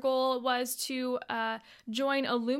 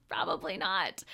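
laughing, lower; 4 semitones lower than usual. Real, not acted. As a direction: chuckle it down low, gently. Laughing repeat of the answer.

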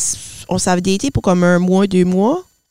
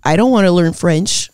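retold refusal; 3 semitones lower than usual. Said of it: "C'est comme".

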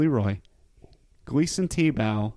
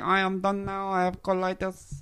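higher, tired put-on voice, dragging done; mock weary fighter voice; 7 semitones higher than usual. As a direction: play him fed up and giving up. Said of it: "He's like".

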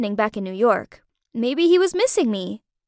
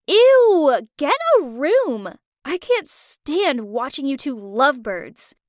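whiny disgust; 3 dB louder, slower than usual. Acted. Friend teasing the lovebirds across the deck, whiny and disgusted. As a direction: drag out the complaint like a grossed-out friend. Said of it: "Aaliyah looked over at us and whined".

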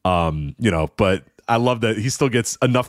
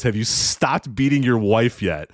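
slow, flat deadpan comeback; slower than usual. Retold or imitated. Stern answering Rome's accusation, slow deadpan retort. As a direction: deliver it dead calm, slowly. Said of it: "looks at him deadpan and goes".

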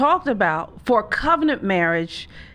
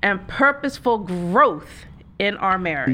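slow, drawn-out twangy read; twang; slower than usual. Shown as a demonstration. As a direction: lean into a light twang. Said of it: "a little twang in my voice".

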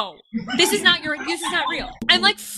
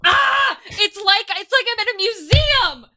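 amazed delight; 7 semitones higher than usual. Real, not acted. Amazed at his collection.

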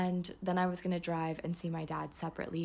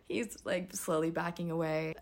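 normal talking voice

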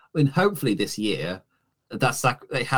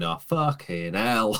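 bitter mutter; 4 semitones higher, slower than usual. Retold or imitated. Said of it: "bitterness as he's walking around".

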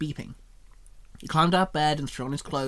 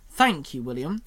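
happily; 3 dB louder than usual. Acted. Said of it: "Shinon said happily".

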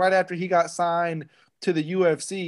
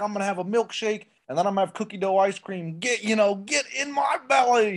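Austin Powers quote; 4 semitones higher than usual. Retold or imitated. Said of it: "he really did do the Austin Power line".

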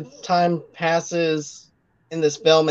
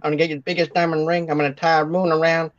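James Cagney impression; much faster than usual. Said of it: "That's our impression of James Cagney".

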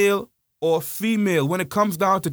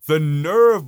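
louder, indignant "nerve"; outraged repeat, louder; disgusted emphasis; 5 dB louder than usual. Real, not acted. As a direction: spit the word out in contempt. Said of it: "louder disgusted repeat".

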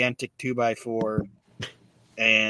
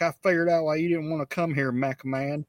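higher-pitched imitation of a griping wrestler; mock griping; 5 semitones higher than usual. Honky Tonk Man to McMahon about the cold, mock griping. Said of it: "are bitching 'cause they're cold".

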